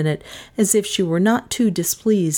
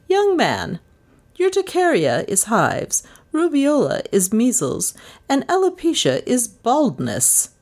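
much higher, forceful scolding; thundering; 8 semitones higher than usual. A narrator's reading. Mistress exposing the fake gardener, stern thunder. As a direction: thunder the facts at him. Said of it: "she thundered".

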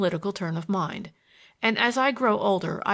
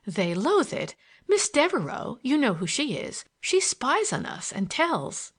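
put-on higher girlish voice, slowing on the last words; indignant gossiping girl; 4 semitones higher than usual. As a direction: tell tales on a spy, pitched up. Girl tells of the spy.

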